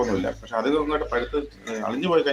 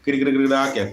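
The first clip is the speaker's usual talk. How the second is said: quick rhythmic mock crackle, a bit louder; imitating crackle sound; 4 semitones higher, 5 dB louder than usual. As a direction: rattle it off like chips sizzling. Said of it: "അതിന്റെ sound മാറും".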